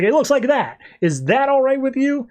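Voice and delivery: high-pitched mock huff; pouty. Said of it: "she gets a little bit pouty".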